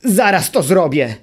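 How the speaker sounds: angry little creature yelling; furious shout. A narrator's reading. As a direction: spit it out in blind fury. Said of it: "wrzasnął zapamiętały w gniewie".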